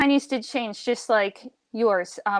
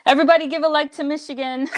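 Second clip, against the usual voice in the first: playful announcement; 4 semitones higher, faster than usual. Acted. Playfully demonstrating English to listeners.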